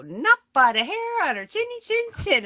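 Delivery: high, loud sing-song tease; shrieky mischievous chant; gleeful taunt. Retold or imitated. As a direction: crow it like a tipsy storybook taunt. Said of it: "And I start cackling".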